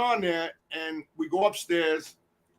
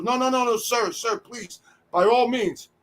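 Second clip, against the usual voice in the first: higher-pitched, placating deference; hasty backing down; 4 semitones higher than usual. Retold or imitated. Guard giving way to the boss's family, placating. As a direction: act out a guard backing off politely. Guard backs down, lets them in.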